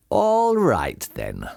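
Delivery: lightly voiced farmer, falling away on the last word; farmer taking charge. Bean answers the other two, taking charge.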